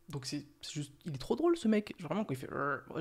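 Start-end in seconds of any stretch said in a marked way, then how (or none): 2.5-2.8 short imitated grunt; imitated growl. Vlogger mimicking a character's grumbles despite refusing, short growl. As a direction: growl like the grumpy footballer. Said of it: "je l'ai fait".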